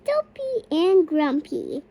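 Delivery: shouting names. Real, not acted. Child shouts dwarf names.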